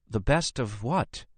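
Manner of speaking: high-pitched, panicky question; panicked. Acted. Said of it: "Nora asked in a panic".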